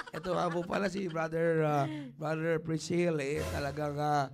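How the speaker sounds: low, halting mock prayer for a guest; demonstrated prayer. Shown as a demonstration. Showing how to pray aloud over an invited guest, low prayerful voice. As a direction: pretend to pray, pointedly within the guest's hearing. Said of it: "Pagka nag-pray sa bisita, yan lagi ko sinasabi".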